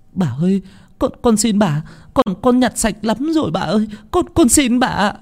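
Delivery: high, pleading stammer; begging servant. A narrator's reading. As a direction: beg for mercy, stuttering. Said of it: "van xin". (người hầu van xin lắp bắp, giọng cao)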